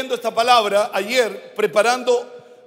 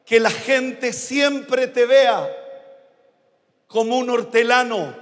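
divine voice. Acted. God's words to the preacher. (cadencia lenta casi cantada)

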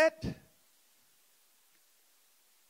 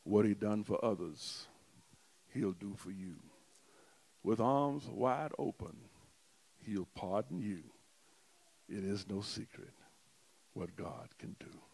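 softly recited hymn; 4 semitones lower than usual. Acted. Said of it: "The little song says".

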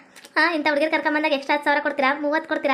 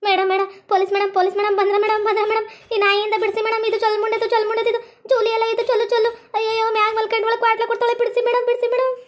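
rising, insistent, higher pleas to madam; pleading for help; 4 semitones higher than usual. Acted. Prisoner begging the policewoman to pull her off, pleading. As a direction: beg the police madam to save you, getting shriller.

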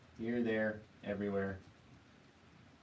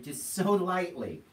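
put-on higher, slow, cooing as if to a baby; tender coo; 7 semitones higher, 5 dB louder, slower than usual. Shown as a demonstration. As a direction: coo it like you're hushing a sleeping baby. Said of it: "touch a baby's cheek while it's asleep".

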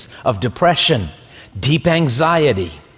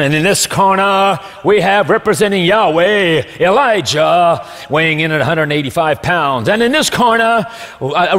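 boxing ring announcer; 2 semitones higher than usual. Pretend. Boxing match announcement of God contest.

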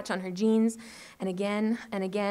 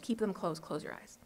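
soft whisper, eyes closed; 2 semitones lower, 9 dB quieter than usual. A narrator's reading. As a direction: hush it gently. Tilly whispering so Mima sleeps.

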